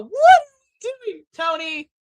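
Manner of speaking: very high, loud plea; shrieked exasperated question. Retold or imitated. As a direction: cry it out to the boss, fed up. Exasperated rant at the promoter.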